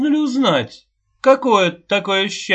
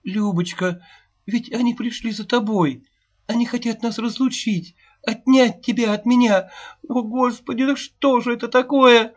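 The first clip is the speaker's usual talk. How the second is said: much higher, louder, near-sobbing wail; anguished lament; 11 semitones higher, 7 dB louder than usual. A narrator's reading. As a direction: cry out in grief to the child. Mother losing her daughter. (причитает в отчаянии, навзрыд)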